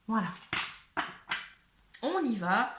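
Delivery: put-on accent du sud enjoué; southern French accent. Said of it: "Je sais pas pourquoi je prends cet accent du sud".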